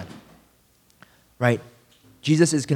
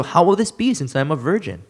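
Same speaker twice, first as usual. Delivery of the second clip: Mary's question; 2 semitones higher than usual. Acted. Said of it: "And Mary said to the angel".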